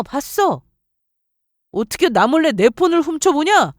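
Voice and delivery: ordinary delivery, nothing marked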